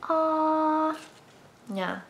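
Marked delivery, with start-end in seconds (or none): 0.0-1.0 "Ah" said as the open o of wash; short o sound. Shown as a demonstration. Teacher modelling the letter A copying O. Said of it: "he copies the letter O and he'll say".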